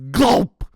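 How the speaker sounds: short, loud swallowing effect; voiced gulp. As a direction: punch it out like a big swallow. Dingo swallows a joey.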